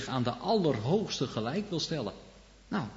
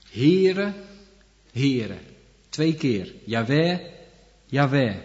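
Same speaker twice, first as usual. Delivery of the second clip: calling out the name; 4 dB louder, slower than usual. Acted. The Lord calling his name, loud solemn call. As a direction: proclaim it, then settle.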